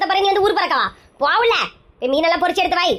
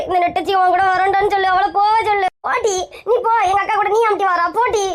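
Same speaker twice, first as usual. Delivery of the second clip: tearful scolding; 3 semitones higher than usual. Acted. Sister sobs and shoos rival.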